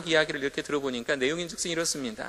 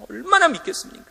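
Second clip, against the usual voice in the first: pitched far higher, pressing the point; emphatic repeat; 13 semitones higher, 5 dB louder than usual. Acted. 설교자가 회중에게 강조하며 다시 묻는, 높고 큰 소리. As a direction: call it out again, louder and higher.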